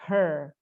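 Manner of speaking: "Her" with untrilled English r; correct pronunciation. Shown as a demonstration. Teacher admitting it sounds funny, correct pronunciation. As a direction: curl the r in "Her". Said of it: "ngucapinnya cuma kayak gini".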